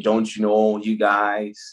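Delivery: playful hint of Canadian accent. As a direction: lightly put on a Canadian accent. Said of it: "Canadian accent".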